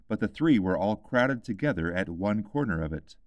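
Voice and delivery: usual speaking voice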